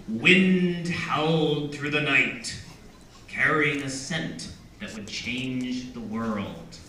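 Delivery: slow, measured prologue reading; hushed fall at the close of the line; story narration. A narrator's reading. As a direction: read it slowly and portentously, letting the end drop. Reads the prologue aloud.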